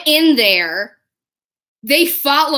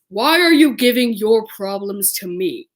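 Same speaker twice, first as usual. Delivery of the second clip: put-on character voice, starting emphatic and dropping; Kyoya; 3 semitones lower than usual. Character answers a fan offloading her sister, put-on voice. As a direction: do an anime character's reproachful question. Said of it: "Let me do it in his voice".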